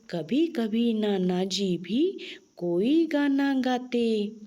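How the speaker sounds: put-on slow, sing-song reading of a children's poem; poem recitation. Recites the poem with nana nani. (बच्चों को कविता सुनाती हुई धीमी लय)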